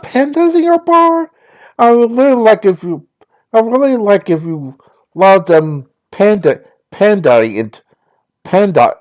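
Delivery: a hint of bubbly Valley Girl; lightly voiced sorority girl gushing. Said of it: "my Valley Girl voice".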